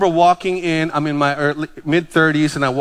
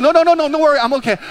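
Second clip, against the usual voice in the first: spluttering man; 9 semitones higher, much faster than usual. Retold or imitated. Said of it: "he starts coughing".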